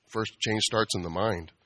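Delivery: slow, soft mock wisdom; mock guru. Bartender teasing customer with slow mock wisdom. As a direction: deliver it like a sage, slowly. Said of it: "I'm like".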